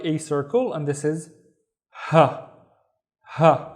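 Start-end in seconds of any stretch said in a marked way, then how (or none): 1.9-3.7 "ha" with a light English h; regular ha. Shown as a demonstration. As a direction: say "ha" as in house or hammer. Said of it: "this is the regular ha".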